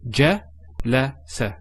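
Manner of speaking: je le se kept short and clipped; quick short syllables. Shown as a demonstration. Teacher shows short vowels to learners, quick. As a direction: keep each vowel short. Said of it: "it's a quick sound".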